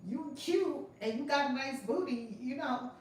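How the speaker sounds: teasing retold scolding, tipping into laughter; Kevin Hart. Retelling a comedian's joke to a woman sleeping in her car, light imitation. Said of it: "he said".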